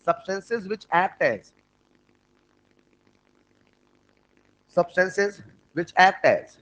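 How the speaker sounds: dictating very slowly, repeating the phrase; very slow repeated dictation. Shown as a demonstration. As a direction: drag each word out for note-taking. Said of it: "लिखना".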